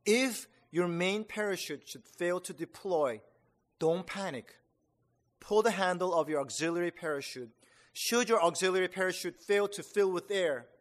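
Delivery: confident instructor. Retold or imitated. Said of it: "The airborne sergeant's voice rang out confidently".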